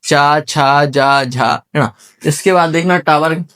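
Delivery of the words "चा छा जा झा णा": "चा, छा, जा, झा, णा" with the tongue at the palate; palatal sounds. Shown as a demonstration. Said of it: "जीभ यहाँ तालू के पास लगेगी".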